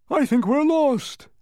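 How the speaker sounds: loud, high, drawn-out cry of a winded bug; panting humbug. A narrator's reading. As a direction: wail it slowly, as if out of puff. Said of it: "panted the humbug".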